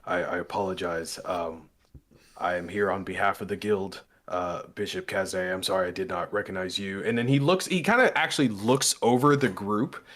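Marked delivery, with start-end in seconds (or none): 0.1-7.0 lower, stiffly formal apology; propped-up, apologetic formality. Acted. Guild man apologises to the bishop, stiffly formal. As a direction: straighten up and apologise properly. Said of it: "proppers up a little bit".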